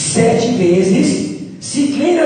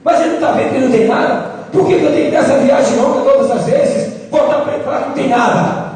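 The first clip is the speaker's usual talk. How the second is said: acted grumble, a touch quick; mild complaining; faster than usual. Servant grumbling about his repeated trips for the prophet, mildly complaining. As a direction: complain like a weary errand boy, lightly acted. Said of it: "na quinta vez ele ia reclamando".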